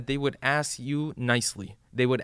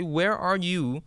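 raised, slightly higher call; 4 semitones higher than usual. Retold or imitated. A believer in hellfire calling out for his protector, raised voice. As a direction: call out across a crowd for help. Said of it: "I will call out and I will say".

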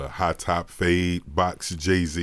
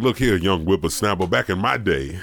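put-on old prospector; 4 dB louder than usual.

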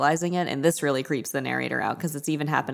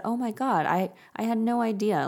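mildly moved, higher-pitched voice; higher, gently apologetic quote; touched; 6 semitones higher than usual. Retold or imitated. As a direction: retell it as if a little touched. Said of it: "he's touched".

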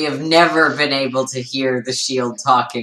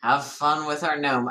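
quiet internal voice; 2 semitones lower, 5 dB quieter than usual. Acted. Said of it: "I am trying to say this internally".

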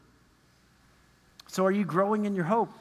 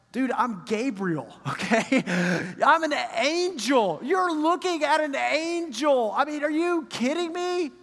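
slow, higher mock disbelief; exasperated Gabriel; 4 semitones higher than usual. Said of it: "Gabriel's like".

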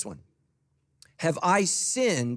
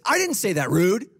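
louder, offended mock retort; indignant snap; 4 semitones higher, 6 dB louder than usual. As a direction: bristle back as if insulted. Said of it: "You ever said this?".

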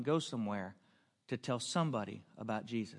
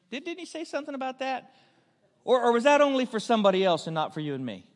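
pointed, higher and louder questioning; rhetorical challenge; 9 semitones higher, 8 dB louder than usual. Real, not acted. Preacher challenging the congregation, much higher and louder.

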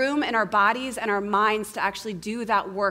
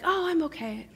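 brushing it off; 8 semitones higher than usual. Acted. Acts brushing off a friend's concern.

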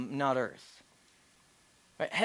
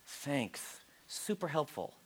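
dry sarcasm; 4 semitones lower, 12 dB quieter, much slower than usual. Acted. Sarcastic aside on Jesus' words.

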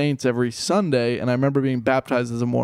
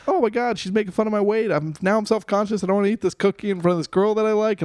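raised, lightly panicked thoughts; panicked inner voice; 6 semitones higher than usual. Retold or imitated. Man fretting beside girl he likes, mild retold panic. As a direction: retell a self-conscious fret, running on nervously. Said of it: "I'm panicking and I'm sweating".

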